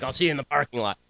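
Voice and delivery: a slightly darker, lightly voiced threat; retold parking-lot threat, a hint of menace. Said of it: "It was more like".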